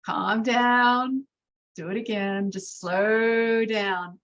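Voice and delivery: drawn-out talk to yourself; slowing right down on the final phrase; self-coaching slowdown. Retold or imitated. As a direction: talk yourself down, stretching the last words. Coaching herself to slow down.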